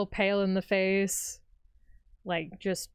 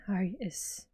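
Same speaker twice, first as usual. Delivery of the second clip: whispering; 5 dB quieter than usual. Acted. Shaken character whispers.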